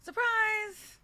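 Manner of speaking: high, loud mock announcement; mock surprise. Cohost teasing Liz with a mock party surprise, high and loud. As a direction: sing out Surprise! like a party reveal.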